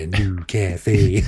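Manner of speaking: slow drawn-out hipster voice; bored ironic hipster. Retold or imitated. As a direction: mimic a bored hipster, stretching cafe. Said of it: "I like the hipster voice today".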